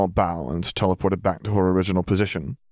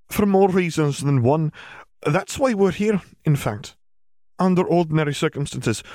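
higher-pitched witch explaining formally; McGonagall, explanatory; 8 semitones higher than usual. A narrator's reading. Witch explaining to Muggle parents, higher formal voice. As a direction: explain the situation in a raised, measured voice.

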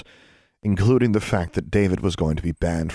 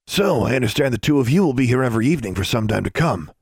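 higher-pitched, lively character voice; Mister Journey, genial supervisor; 6 semitones higher, 3 dB louder than usual. Acted. Mister Journey greets two detained students, genial supervisor.

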